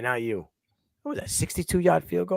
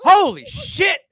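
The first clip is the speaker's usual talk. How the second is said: higher, louder, laughing out; laughing exclamation; 11 semitones higher, 7 dB louder, slower than usual. Real, not acted. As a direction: burst out laughing at the joke. Laughing at own joke.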